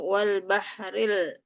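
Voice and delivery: Wal bahril slowly, with the l of bahril clearly joined; slow recitation demo. Shown as a demonstration. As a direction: bahril spelled out slowly, every sound clear. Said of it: "dari ayat enam".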